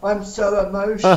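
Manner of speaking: hammed-up emotional whine; mock breakdown. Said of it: "started breaking down".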